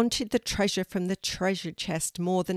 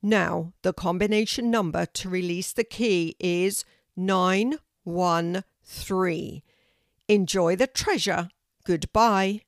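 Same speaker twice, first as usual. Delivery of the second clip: loud tree voice declaring "Correct"; booming oak tree; 5 dB louder than usual. A narrator's reading. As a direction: announce it like a great old tree.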